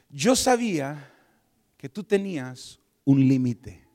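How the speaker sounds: slow, loud, weighty pronouncement; lightly voiced divine reproach, spaced out; Espíritu Santo. God confronting a reluctant giver, solemn pronouncement. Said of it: "la voz del Espíritu Santo ... me dice".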